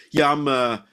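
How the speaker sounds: lightly put-on Cockney voice; thick Cockney accent. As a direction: mimic a Cockney claiming to be Irish. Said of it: "like, thick Cockney accent".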